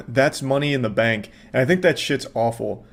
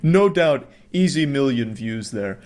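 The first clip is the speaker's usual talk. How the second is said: mock praise. Critic applauds mom's thumbnail directing, mock praise.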